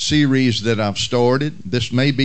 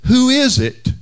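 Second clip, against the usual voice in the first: higher surprised question; woman asking; 9 semitones higher, 3 dB louder than usual. Retold or imitated. Woman of the house finding the fainted man, surprised question. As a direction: ask it, startled at the figure. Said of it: "and said".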